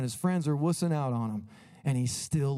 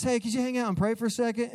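Jesus voiced; 9 semitones higher, faster than usual. Jesus voiced asking disciples.

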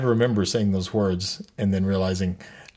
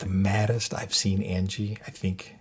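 hushed so his wife won't hear; talking quietly; 3 semitones lower, 6 dB quieter than usual. Real, not acted. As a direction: keep it down, confiding. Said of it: "I'm talking quietly".

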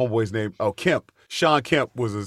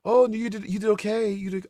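high, fading mock consolation; hammed-up fake comfort, pitched high; mock reassurance; 10 semitones higher than usual. Famous people pretending he did fine, mock reassuring. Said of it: "they would act like".

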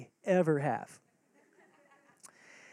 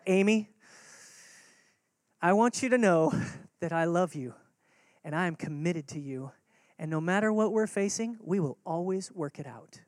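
tender reassurance; 3 semitones lower than usual. Retold or imitated. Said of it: "I would say".

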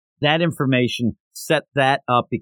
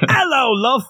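high stage Irish greeting; classic Irish accent; 10 semitones higher, slower than usual. Shown as a demonstration. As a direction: sing out a cliché Irish hello. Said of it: "Irish accent like this".

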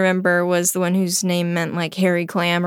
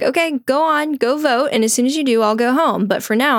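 brisk dismissal; 5 semitones higher than usual. Retold or imitated. Wife sending husband off, retold.

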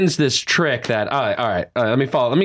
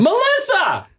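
excited yell; much slower than usual. Pretend. Screams coworker's name.

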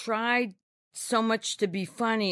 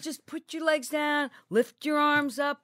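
exasperated; 8 semitones higher than usual. Retold or imitated. Annoyed retort to yoga teacher.

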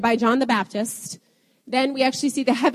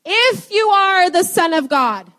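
slow, high, loud challenge; needling tempter, leaning on the words; questioning, provoking Satan; 7 semitones higher, 5 dB louder, slower than usual. Acted. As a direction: cast doubt with a drawn-out taunt. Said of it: "This is what Satan says".

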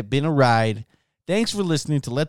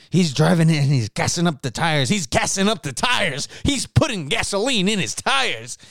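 mock rant; 5 semitones higher than usual. Mock rant about Nick's driving.

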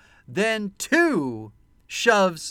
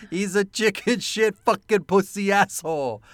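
quoting a movie line; 4 semitones higher, 3 dB louder than usual. Retold or imitated. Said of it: "this was my line".

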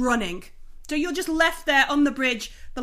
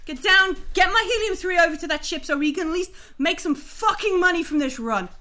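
raised voice, scolding the crew; angry shouting; 3 semitones higher than usual. Acted. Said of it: "Miller just shouts at you".

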